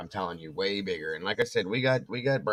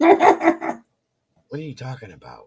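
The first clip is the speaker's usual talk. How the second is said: drawn out slow and loud, higher; half-asleep protest, stretched out; slow loud disbelief; 5 semitones higher, 12 dB louder, much slower than usual. Retold or imitated. Groggy reply to wife's call.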